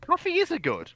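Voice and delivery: very high indignant retort; indignant squeak. Real, not acted. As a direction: squeak it in protest.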